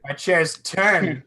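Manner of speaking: a sudden high yelp, then slow, stretched words; startled American soldier. Retold or imitated. American soldier startled as his swivel chair turns. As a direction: act shocked that the chair spun round. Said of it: "the Americans are like".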